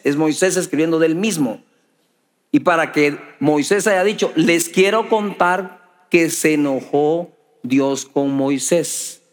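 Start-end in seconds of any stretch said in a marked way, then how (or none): 4.3-9.2 mock third-person narration. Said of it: "como que hablaba en tercera persona".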